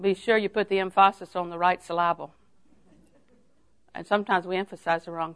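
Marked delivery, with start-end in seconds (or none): 0.5-2.3 "emphasis" and "syllable" with playfully shifted stress. Shown as a demonstration. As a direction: repeat the saying, toying with "emphasis" and "syllable". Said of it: "You want me to say that again?".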